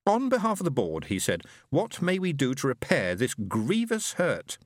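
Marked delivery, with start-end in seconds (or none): 0.1-1.1 stately high alien voice; alien Fenobe. Acted. Fenobe voice again. 1.7-4.6 high, slow alien voice; a lofty alien speaking slowly and high; stately high alien voice; alien Fenobe. Acted. Fenobe voice again.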